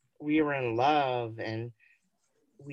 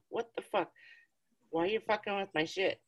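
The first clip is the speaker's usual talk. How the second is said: angry cat; 3 semitones higher, 5 dB quieter, faster than usual. Retold or imitated. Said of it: "he's like".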